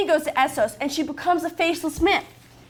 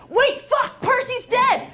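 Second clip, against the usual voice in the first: mock realisation; 8 semitones higher, slower than usual. Acted realisation in fix story.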